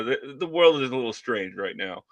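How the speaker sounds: ordinary talk, nothing marked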